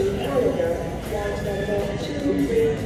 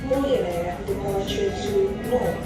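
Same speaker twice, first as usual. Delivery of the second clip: boarding call over the PA; tannoy announcement, echoing hall; airport announcement. Real, not acted. Airport gate boarding calls.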